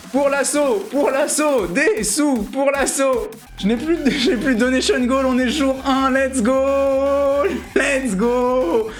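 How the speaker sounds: high-pitched hyped chant; rally the crowd, voice way up; excited rallying cry. Real, not acted. Streamer rallying donors on day one, excited cheering. Rallies donors, goals all reached.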